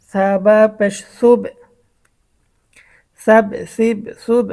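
teacher's measured demo of বাব, বিব, বুব; sukun spelling demo. Shown as a demonstration. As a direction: spell it, then land on the joined sound. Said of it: "এখানে তা দিয়ে দেখেন".

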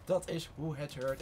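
"Dat is hoe het hoort" slow, each word separate; slow, deliberate repeat. Real, not acted. Gamer approving of play, "Dat is hoe het hoort" slow and deliberate.

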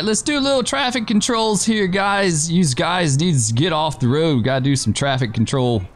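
hammed-up mock New York cop accent; bad New York accent. Officer directing traffic to clear the road, bad New York accent. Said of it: "My really bad New York accent".

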